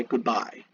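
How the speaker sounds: "goodbye" with the emphasis on "bye"; "goodbye" as an iamb, light "good", stressed "bye"; stress on second syllable. Shown as a demonstration. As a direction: lean on the second half of "goodbye". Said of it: "you put the emphasis on by".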